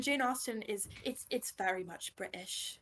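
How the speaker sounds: lightly put-on British accent; a touch of dignified British; mock-dignified Jane Austen British. Shown as a demonstration. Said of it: "with this dignified British accent".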